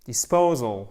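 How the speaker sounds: DISPOSAL with short I, stressed long PO; short first vowel, then lean on PO in "Disposal"; I court. Shown as a demonstration. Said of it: "vous avez un I court". (Disposal, I court puis accent sur PO)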